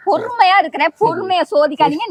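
tense exasperation. Real, not acted. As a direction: warn sternly, barely holding patience. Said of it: "tension ஆகாதீங்க".

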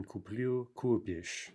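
куплю stressed at the end, купишь on КУ; end-stressed куплю, then stem-stressed купишь; shifting stress. Shown as a demonstration. Teacher giving the key forms, куплю stressed last, купишь stressed first. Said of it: "we have shifting stress".

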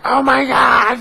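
high pained exclamation; sore muscles. Retold or imitated. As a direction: gasp it out as sore arms stretch. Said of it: "I was like".

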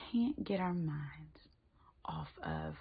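a near-silent whispered confession; fading whisper. Real, not acted. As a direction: let it fade to a whisper on pride. List ends in a dying whisper.

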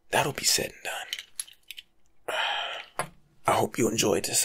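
ordinary talk, nothing marked

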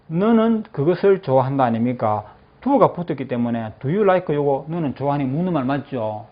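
usual speaking voice

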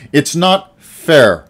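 loud, high, drawn-out yell. A narrator's reading. The boy yelling at his uncle about fairness, loud protest. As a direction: stretch it out in protest. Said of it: "I yelled".

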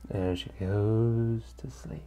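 very slow, soft narration; drifting off. A narrator's reading. Narrator as Monika falls asleep, slow and hushed. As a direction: let the words trail into sleep, hushed.

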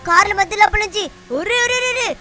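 panicked yelps. Acted. Weaving between cars at speed.

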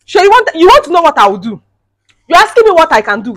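loud, high challenge to her mother-in-law; angry retort. Acted. Wife confronting her mother-in-law, angry and loud. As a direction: throw the question back at her, furious.

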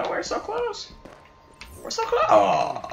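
high-pitched panicked wail; desperate cry. Real, not acted. Losing the match at the end.

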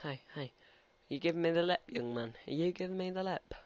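playfully challenging, pitch lifted; mock-indignant telling-off; mock confrontation. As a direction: square up to someone cheeky, half in jest. Mock challenge to a game character.

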